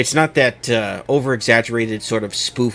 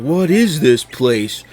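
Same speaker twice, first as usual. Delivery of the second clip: higher, louder, drawn-out film quote; Chris Pratt's Mario; 5 semitones higher, 5 dB louder, much slower than usual. Retold or imitated. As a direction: lightly imitate a half-hearted Brooklyn-accent line. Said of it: "wasn't even really trying with the Brooklyn accent".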